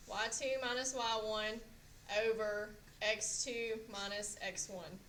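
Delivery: OVER set apart after a pause, drawn out; slow, deliberate formula with an exaggerated OVER; exaggerated for memory. Real, not acted. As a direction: exaggerate OVER so the class remembers it. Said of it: "I was just trying to exaggerate it".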